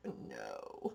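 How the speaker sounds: low, soft, drawn-out groan of dismay; mock dismay. Owner reacting to her hen starting to crow, mock dismay. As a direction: let the words sink low in playful dread.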